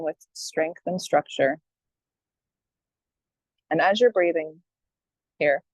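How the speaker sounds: unhurried meditation guidance with long pauses; guided meditation. Acted. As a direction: gently guide listeners into breathing, leaving space between phrases.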